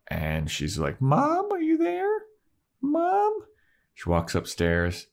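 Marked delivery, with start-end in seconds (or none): 1.0-3.4 very high, tentative sing-out call. Retold or imitated. Buffy arriving home looking for mom, calling out. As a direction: call through the house in a put-on voice.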